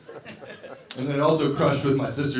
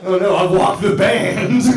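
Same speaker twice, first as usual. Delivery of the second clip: mock dismay; 6 semitones higher, 9 dB louder than usual. Real, not acted. Band leaves the stage.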